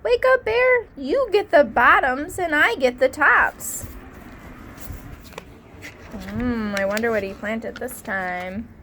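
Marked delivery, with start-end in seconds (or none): 0.0-3.9 high, loud wake-up call across the field. A narrator's reading. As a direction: shout to wake the sleeping bear. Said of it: "Hare called out".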